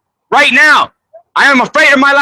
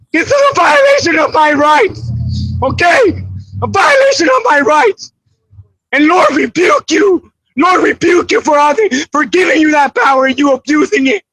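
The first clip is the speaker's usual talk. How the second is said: shouting rebuke. Real, not acted. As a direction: call down the Lord's rebuke on them.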